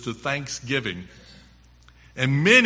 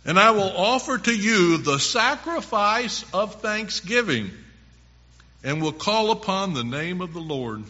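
raised, emphatic Bible reading; scripture reading; 5 semitones higher than usual. Acted. Preacher reads a psalm of thanksgiving to listeners, emphatic scripture reading. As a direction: read the verse out with ringing emphasis.

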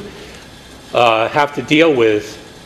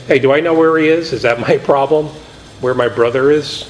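sarcastic. Acted. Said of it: "you can almost hear him being sarcastic".

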